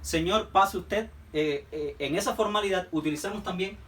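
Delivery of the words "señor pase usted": slow, respectful courteous tone; polite formal address. Retold or imitated. Example of respectful speech to a stranger, slow and courteous. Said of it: "Es como decimos nosotros".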